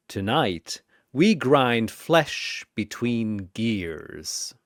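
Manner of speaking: booming ringmaster welcome, rising then darker; theatrical arena host welcome; showman's welcome. Acted. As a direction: greet the crowd like a grand ringmaster.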